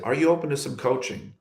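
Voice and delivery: gentle, kindly offer. Retold or imitated. To a timid server at the counter, asking kindly. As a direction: ask it gently, as a kind invitation. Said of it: "really kindly".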